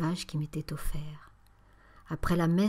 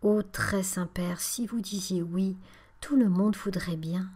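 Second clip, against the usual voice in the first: pleading. Acted. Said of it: "d'une voix suppliante".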